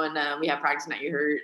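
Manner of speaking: low, soft imitation of Louisiana guys; casual Cajun slang, voice dropped; Cajun athlete. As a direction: mimic a Cajun ballplayer lightly. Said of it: "they'll be like".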